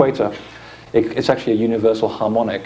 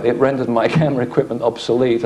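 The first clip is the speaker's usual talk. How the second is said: a brief real chuckle mid-sentence; amused, lightly laughing as you talk; 2 semitones higher than usual. Real, not acted. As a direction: let a small laugh slip into the words. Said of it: "I don't know why I'm laughing".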